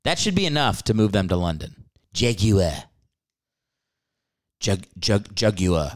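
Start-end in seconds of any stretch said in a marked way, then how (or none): 2.1-5.3 British Jaguar, JAG-yoo-uh with no final r; British accent. Shown as a demonstration. Mocking how British people say Jaguar, British accent. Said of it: "how British people say the word Jaguar". 5.3-5.9 attempted British accent. Shown as a demonstration. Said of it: "I can't do accents".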